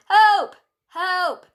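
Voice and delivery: high, drawn-out cry for help, loud then easing; shout for help. A narrator's reading. Second sheep joining the cries for rescue, shouting. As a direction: wail it out high, first one loudest. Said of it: "shouted Dolly two".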